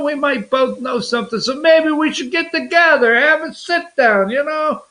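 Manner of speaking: casual New York wise-guy pitch; lightly played New Yorker, offering a sit-down; New Yorker talk. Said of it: "is a New Yorker".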